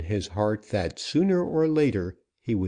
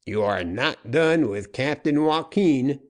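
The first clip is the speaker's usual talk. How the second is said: slightly raised emphatic vow; 5 semitones higher, 3 dB louder than usual. A narrator's reading. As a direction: land every word of the promise. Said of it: "in emphatic tone".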